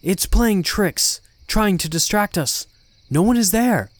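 insistent priest taking command; stern warning. A narrator's reading. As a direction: warn the room firmly, voice lifted. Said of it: "Father Elio warned sternly".

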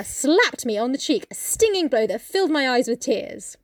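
lightly dramatised reading aloud; story narration. Acted. Reading Nellie's account of the pinch, story narration. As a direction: read it out deliberately, stressing the action.

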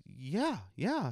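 high, lively imitated yeah; eager yes. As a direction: chirp the aunt's happy agreement. Aunt eagerly agreeing.

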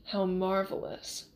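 slow, relishing drawl; savouring gloat. A narrator's reading. Count gloats over wounded Inigo, slowly. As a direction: draw it out, savouring the moment.

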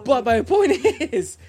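loud, high, slow insistence; emphatic shout. Real, not acted. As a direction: shout over the laughter to make the point. Shouts over friends to make point.

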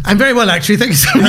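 put-on a polite English accent, the opposite of the first greeting; proper English accent. Comedian flips to an English accent for contrast. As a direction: answer as a prim Englishman. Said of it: "The contrast there, it's amazing".

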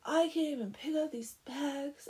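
high, whiny mock self-pity; worked up. Blacksmith berating himself over the heavy sacks, worked-up whine. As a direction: whine like a hammed-up failure. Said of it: "he gets himself all worked up".

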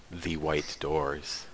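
slow, drawn-out title announcement; dramatic title read. Acted. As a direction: announce the title slowly, with weight.

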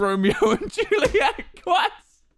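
can barely get it out for laughing. Retold or imitated. Typing help request, cracking up.

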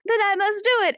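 high, grand declaration; mock heroic resolve. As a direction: play it as a dramatic heroine. Cinder resolves to go herself.

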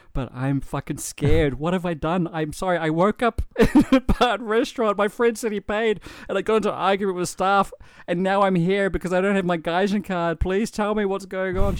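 high, loud, half-crying plea; tearful pleading. Retold or imitated. Scared man pleading with his lawyer on the phone, tearful. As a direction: retell the panic as if the tears are coming back. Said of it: "I just started fucking crying".

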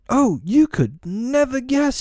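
very high, drawn-out fairy voice; excited fairy cry. A narrator's reading. Fairy bursting with news for Peter, high excited cry. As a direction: stretch it out high and teasing. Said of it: "she cried".

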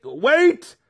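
very high, loud call. A narrator's reading. Maya interrupting the sacrifice, high urgent call. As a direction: stop the ritual at once. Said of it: "called Maya".

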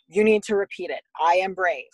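little kid leading the chant, lightly voiced; lightly imitated preschooler. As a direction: instruct mom like a small child. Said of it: "He's like".

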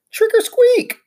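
high, loud squeaky shout. Acted. Hamster in a ghost sheet shouting to the class. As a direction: shout it out like never before. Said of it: "began to shout, like I'd never shouted before".

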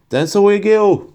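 high-pitched cry of an incantation; shouted spell. A narrator's reading. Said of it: "diye bağırdı Malfoy".

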